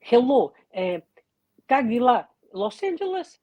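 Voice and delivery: put-on high, eager child voice; imitated little kids. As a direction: pipe up like a curious little kid. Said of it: "the little kids would be like".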